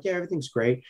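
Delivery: softly voiced zen calm; quiet and unbothered. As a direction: play it cool, keeping it soft. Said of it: "I'm just, like, quiet".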